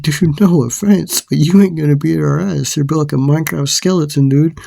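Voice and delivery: re-enacted high-pitched taunt; taunting comeback. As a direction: throw back an acted insult.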